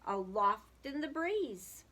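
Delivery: lively storybook reading aloud; sing-song children's story voice. A narrator's reading. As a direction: read it like a rhyming picture book to kids. Reading a picture book aloud.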